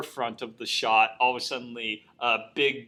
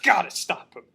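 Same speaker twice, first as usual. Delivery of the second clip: Mel. Retold or imitated. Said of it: "terrible performance".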